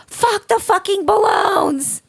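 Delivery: high, slow, drawn-out yell; retold scream. Mom losing it in the party store parking lot, high drawn-out scream. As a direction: scream it out like it's all caps. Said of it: "and scream".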